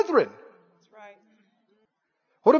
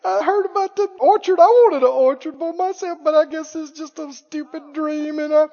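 whining; 5 semitones higher than usual. Retold or imitated. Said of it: "they're whining and".

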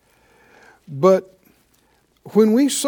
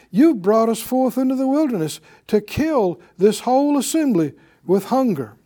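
louder preacher reading the Exodus passage; scripture reading; 5 dB louder than usual. Acted. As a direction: read the verses out strong to the congregation. Reads scripture aloud at full force.

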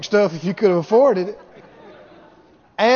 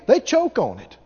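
ordinary delivery

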